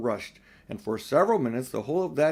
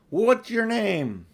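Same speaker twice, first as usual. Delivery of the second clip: slow, high bawl; 8 semitones higher, much slower than usual. A narrator's reading. Aslan asking the giant his name, bawling. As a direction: bawl it up the wall. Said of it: "he bawled up at the giant".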